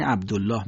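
second "عبدالله" with a thick, dark "l" and long back "aa"; careful tafkhim demonstration; heavy lam. Shown as a demonstration. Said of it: "تا درشت ادا بشه".

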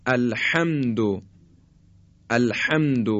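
الرحمن slow, with a husky, constricted ح. Shown as a demonstration. Teacher demonstrating the husky ح. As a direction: squeeze the ح of الرحمن in the throat.

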